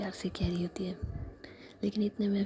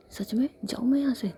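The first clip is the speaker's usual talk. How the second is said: louder, higher shocked whisper; 5 semitones higher, 7 dB louder than usual. Acted. Iliyas stunned that Savi tells her to leave, shocked whisper. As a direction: gasp it out in disbelief. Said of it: "shock होकर के".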